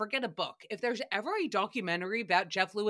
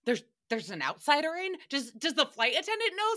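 mock snooty alarm; 6 semitones higher, faster than usual. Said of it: "looking at each other like".

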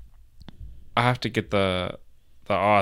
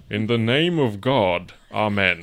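put-on old-timey voice. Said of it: "Can you do it in, like, a old-timey voice".

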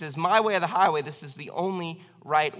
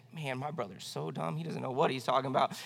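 little sister's voice; 5 semitones lower, 8 dB quieter than usual. Retold or imitated. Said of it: "She was like".

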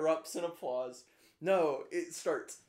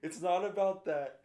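mock tearful speech; 3 semitones higher than usual. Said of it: "And he's like".

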